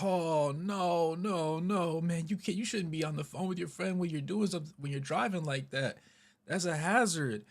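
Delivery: high-pitched mock scolding; scolding mom. Mom tells off the driver for phoning, high scolding voice. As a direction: imitate an indignant mother lecturing, pitch held high.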